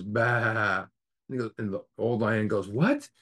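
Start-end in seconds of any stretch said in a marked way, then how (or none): 0.0-0.9 long drawn-out bah; imitated sheep bleat. The sheep lion answers the old lion, imitated bleat. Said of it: "the sheep lion goes". 2.7-3.1 put-on high-pitched, incredulous old lion. Old lion reacts to a bleating lion, acted incredulity.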